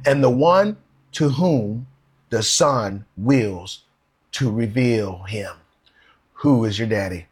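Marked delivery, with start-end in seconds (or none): 0.0-5.5 slow emphatic reading. Shown as a demonstration. Preacher points the congregation to the good news, slow and weighty. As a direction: linger on each word to drive it home. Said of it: "look at that good news at the latter part".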